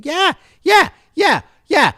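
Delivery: high, loud hyped yeah yeah; excited shout. Real, not acted. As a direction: fire up the crowd, shouting.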